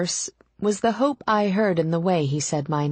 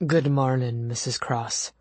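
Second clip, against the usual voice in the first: chauffeur; 4 semitones lower than usual. A narrator's reading. Chauffeur's voice in narrated dialogue.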